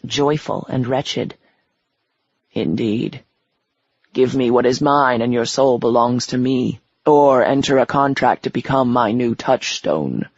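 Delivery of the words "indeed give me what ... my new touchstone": a lightly lowered, menacing devil. Acted. The devil claiming her soul, menacing and low. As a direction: speak low and commanding like the devil.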